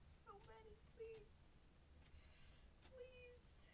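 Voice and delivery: mock begging for a hit, squeaky and high; a high little plea to the pack; high pleading squeak. Ripping packs, he begs the box in a high squeak.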